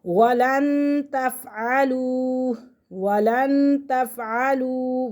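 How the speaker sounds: words stretched slowly with the long vowel held; tajweed recitation demo. Shown as a demonstration. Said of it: "ये वाव मद्दा है".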